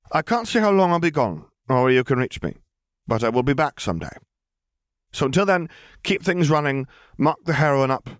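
a lifted, amused female voice; Lily's voice. A narrator's reading. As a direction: correct the charge with dry poise.

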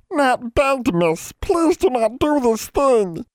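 high-pitched, pleading wail; drawn-out, high elf wail; wailing house elf. A narrator's reading. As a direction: beg tearfully in a squealing elf voice. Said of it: "Nat wailed".

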